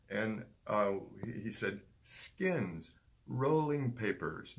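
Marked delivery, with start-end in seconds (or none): 2.0-4.5 "rolling papers" spelled out slowly, every syllable distinct; enunciated clearly. Retold or imitated. Stranger spelling out his request, slow and very distinctly. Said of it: "he enunciated much more clearly".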